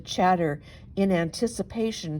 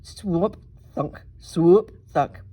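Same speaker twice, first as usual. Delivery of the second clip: footstep sounds; 3 dB louder, slower than usual. A narrator's reading. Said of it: "horrible sound of the monster's footsteps".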